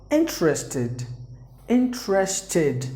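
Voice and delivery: interested said slowly as three clear syllables; teacher slowly modelling interested; careful model word. Shown as a demonstration. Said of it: "That's how you have to pronounce the word".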